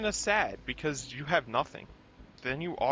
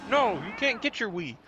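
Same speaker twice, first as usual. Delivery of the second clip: mom firmly refusing, a little higher; hint of a scolding mother, pitched up; lightly voiced mom; 6 semitones higher than usual. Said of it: "his mom's like".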